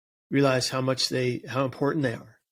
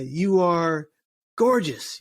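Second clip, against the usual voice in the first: a speaker hyping a crowd with an affirmation, pitched up; hype call; 2 semitones higher, much slower than usual. Retold or imitated. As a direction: sell the compliment big. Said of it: "we're yelling at the top of our lungs".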